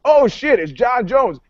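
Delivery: high-pitched delighted recognition; starstruck excitement. Retold or imitated. L A cop spotting a celebrity fighter, starstruck. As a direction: blurt it out like a fan.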